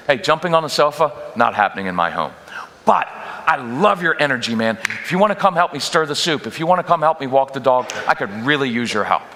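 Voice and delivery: calm, level, firm; even matter-of-fact tone. Shown as a demonstration. Parent telling a child off the sofa, calm and even. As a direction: state it as plain fact. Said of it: "even matter-of-fact tone".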